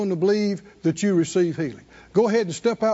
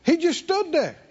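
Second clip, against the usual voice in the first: raised, insistent preacher's delivery; emphatic preaching; 6 semitones higher than usual. Acted. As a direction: preach it with drive, pitched up. Preaches the story.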